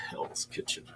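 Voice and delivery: hushed whisper; just breathe the words. Real, not acted.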